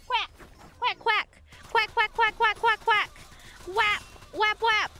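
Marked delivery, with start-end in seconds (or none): 0.8-3.1 quacking like a duck. Pretend. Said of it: "heal you with my quacks".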